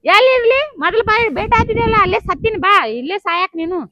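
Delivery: put-on furious girlfriend shouts down the phone; angry yell. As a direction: yell it at him bitterly. Girl yells at lover on phone.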